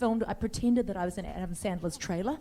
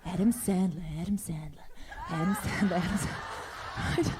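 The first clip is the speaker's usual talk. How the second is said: crazy fan moaning; 2 semitones lower than usual. Retold or imitated. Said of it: "and I'm going".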